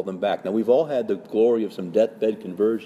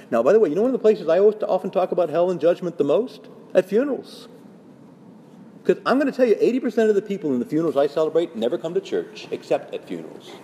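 dramatic urgency; 7 semitones higher, faster than usual. Real, not acted. Preacher to congregation, fast and heated. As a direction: press the point with rising fervour. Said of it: "I'm kinda coming across very dramatic today".

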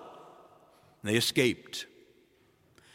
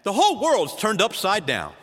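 casual exclamation; 5 semitones higher than usual. Shown as a demonstration. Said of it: "if I were to say to you".

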